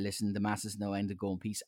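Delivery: low, soft mock priest intoning; lightly voiced priest at the end of mass; a hint of the priest closing mass; priest's blessing. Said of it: "they say".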